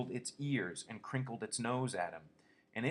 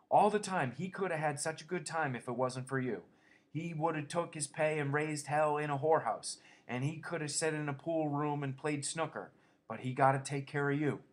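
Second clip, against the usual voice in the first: put-on higher scolding old-woman voice; scolding aunt; 6 semitones higher, 3 dB louder than usual. A narrator's reading. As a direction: nag him like a stern aunt. Aunt Clara keeps scolding.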